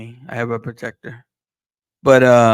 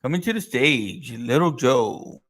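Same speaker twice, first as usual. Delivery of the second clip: drawn-out emcee announcement; strip club announcer; slower than usual. Retold or imitated. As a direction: stretch the name like a club emcee. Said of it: "I always think of a fucking stripper".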